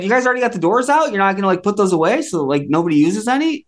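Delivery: quick, high, disbelieving; incredulous. Retold or imitated. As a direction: fire off the question in disbelief. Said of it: "And I said".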